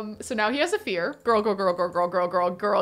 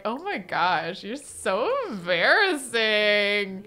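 flirty teasing; slower than usual. Pretend. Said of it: "tease him flirtatiously".

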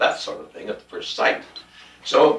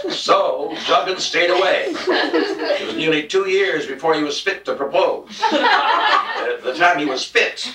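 laughing through words; 4 semitones higher, slower than usual. Real, not acted. Reading while laughing.

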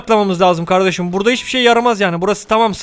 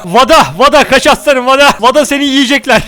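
loud, higher warning cry; urgent warning; 3 semitones higher, 4 dB louder than usual. Real, not acted. Warning Vada that wolves are coming, loud and urgent. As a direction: yell at him to run.

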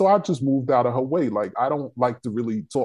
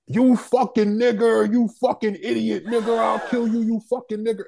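retold racist yelling; 9 semitones higher than usual. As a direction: shout the slurs like the trucker did, pitched high. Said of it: "still yelling".

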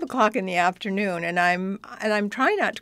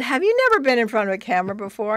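fast, louder disbelieving question; incredulous director; 3 semitones higher, 6 dB louder, faster than usual. Retold or imitated. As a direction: rattle it off in disbelief. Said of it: "He said".

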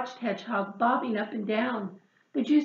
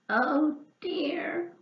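mild wailing oh dear; a touch of a wail, rising; 4 semitones higher than usual. Acted. Hedgehog stuck with the apple, mild wail. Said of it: "wailed Hedgehog".

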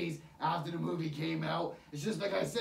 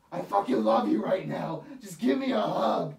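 louder, hammed-up gushing to Tails; mock gushing love; 5 dB louder than usual. Reviewer pretending to gush at Tails, loud hammed-up love. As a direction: overdo the love like a fan hugging. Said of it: "be like".

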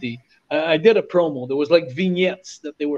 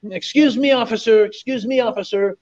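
higher, eager mock tourist asking for help; pleading lost tourist; 4 semitones higher than usual. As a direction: play the lost American calling up politely. Lost American tourist voiced.

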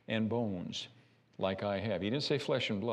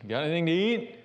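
put-on kid asking Grandma; 6 semitones higher, 5 dB louder, faster than usual. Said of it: "us going to Grandma's house".

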